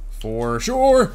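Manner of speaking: loud, high yell on the last word; emphatic shout. Real, not acted. Playful emphatic exclamation in game.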